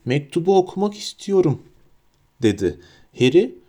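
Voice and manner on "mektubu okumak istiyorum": put-on high-pitched, insistent child; loud demand. A narrator's reading. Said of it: "Yüksek sesle".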